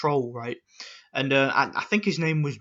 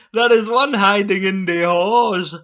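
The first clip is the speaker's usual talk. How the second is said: slow, louder cartoon boy-genius voice; Dexter voice; 3 semitones higher, 6 dB louder than usual. Vlogger doing another Dexter line in a cartoon voice. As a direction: play the scheming boy genius. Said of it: "that's how I imagine these troll comments".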